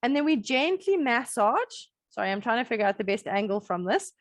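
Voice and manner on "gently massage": emphasize "gently" as the key word of the instruction; stress on gently. Real, not acted. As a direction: lean on "gently", pitched up. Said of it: "I'm really emphasizing the word gently".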